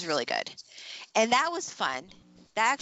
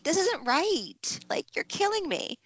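mock crying; 10 semitones higher, slower than usual. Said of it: "I'm like".

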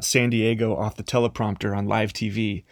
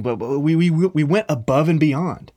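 whiny pleading; 5 semitones higher, 5 dB louder than usual. Acted. Israelites pleading with God.

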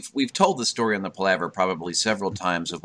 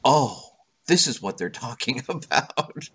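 realisation; 5 semitones higher than usual. Retold or imitated. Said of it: "I'm like".

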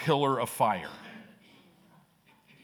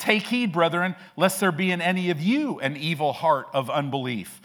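preached scripture; 3 semitones higher than usual. Acted. Reads the verse again.

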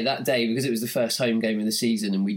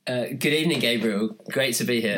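more enthusiasm. Shown as a demonstration. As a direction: put some life into the hello. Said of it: "Say that with a bit more enthusiasm".

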